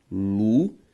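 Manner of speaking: "lunática" split lu... ná... ti... ca; four isolated syllables of "lunática", long pauses between. Shown as a demonstration. Teacher giving the syllable division, syllable by syllable. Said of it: "ao fazer a separação silábica".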